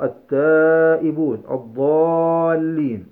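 التائبون and الضالين drawn out slowly, each sound held; slow demo reading. Shown as a demonstration. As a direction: read each example slowly for the class. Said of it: "teacher reads examples". (قراءة بطيئة متأنية للأمثلة)

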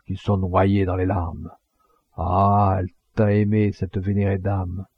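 declaimed graveside eulogy with marked pauses; funeral oration. Acted. Mourner addresses the crowd at the grave, solemn oratory.

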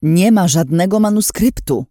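father cutting through the silence, shouting; defiant shout. A narrator's reading. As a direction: slam it down, stress on ma. Głos taty przeciął ciszę.

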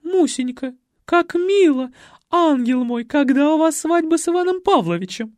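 high, loud, sugary gushing; gushing society lady. A narrator's reading. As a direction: coo over the bride like a grande dame. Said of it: "Первой опомнилась Николетта".

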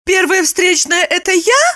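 high offended question; high, wounded surprise; high-voiced woman, mildly hurt; Lipochka's voice. A narrator's reading.

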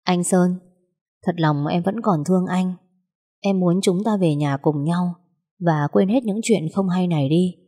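mean every word, steady and sincere; serious and sincere. Acted. Wife earnestly asking her husband to come home, sincere. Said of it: "nói rất nghiêm túc".

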